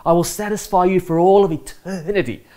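a gentle hint of Jesus making an emphatic promise; preacher voicing Jesus' promise, rising on the repeated ever; Jesus speaking. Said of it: "Jesus is saying".

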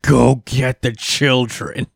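slow, sinister Jafar command; Jafar-style villain. Retold or imitated. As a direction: order it like a cartoon sorcerer. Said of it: "He does a Jafar".

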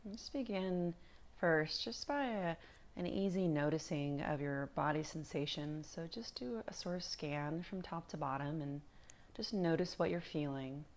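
calm, unhurried meditation guide with long pauses; guided meditation. Acted. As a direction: ease them gently through body and breath, leaving space between phrases.

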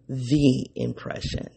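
"the" said as a slow, stressed thee; emphasis on THE. Shown as a demonstration. Host naming the concept, stressing "the" as thee. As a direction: lean slowly on "the", pronounced thee, before "impression". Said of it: "I emphasize the word the".

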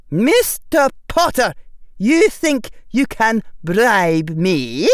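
high, loud, slow indignant rebuke; stern affronted witch. A narrator's reading. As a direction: scold the boy for the offer. McGonagall voiced by narrator.

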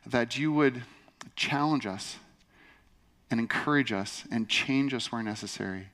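measured prayer, softening and dropping at phrase ends; public prayer. Real, not acted. Pastor leads the congregation before the teaching, prayerful.

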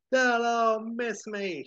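very high and slow, hammed-up defiance; defiant fist-shaking cry. Howard shaking his fist at the lightning, very high and slow. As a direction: drag it out to the sky. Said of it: "shaking his fist at the lightning".

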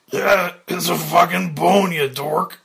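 loud, exasperated shout; heckling cabbie. Acted. Cabbie leaps up among the children, loud heckling yell. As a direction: yell it from the crowd.

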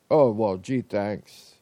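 low, reluctant mock gratitude; begrudging thanks. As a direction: grudgingly acknowledge a favor, voice sinking at the end. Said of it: "respond to the person kind of begrudgingly".

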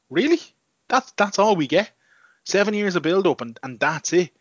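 high, disbelieving "really?"; squeaky outraged disbelief; incredulous. Retold or imitated. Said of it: "I was like".

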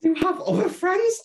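very high, loud wounded squeak; mock heartbroken. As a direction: squeal it like a betrayed friend. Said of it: "And I was like".

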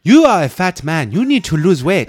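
high, loud nagging wife; naggy wife voice. Retold or imitated. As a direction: scold him like a nagging nurse. Voicing naggy wife from show.

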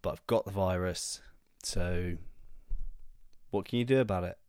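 blocked nose from a cold; stuffy, nasal sick voice. Real, not acted. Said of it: "apologise for my nasally voice".

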